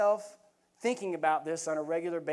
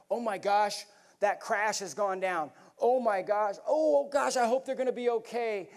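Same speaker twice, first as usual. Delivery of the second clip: rising hand-wringing worry, louder and higher on the second "oh gosh"; mock panicked bystander; 3 semitones higher, 4 dB louder than usual. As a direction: play the onlooker who only frets. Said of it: "It looks kinda like this".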